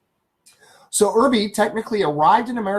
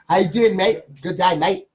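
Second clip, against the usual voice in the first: mock Australian; 4 dB louder than usual. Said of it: "Is that the Australian way?".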